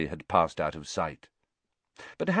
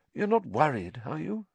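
higher, softening, rising question; gentle concern; 8 semitones higher than usual. A narrator's reading. Teacher passing tea to Harry, gently concerned. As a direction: check on him kindly.

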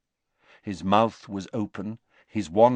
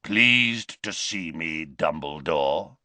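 taunting Greyback; 4 semitones lower, slower than usual. A narrator's reading.

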